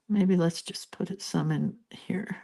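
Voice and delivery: hushed whisper to herself. Real, not acted. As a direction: whisper it softly under breath. Quiet aside while coloring.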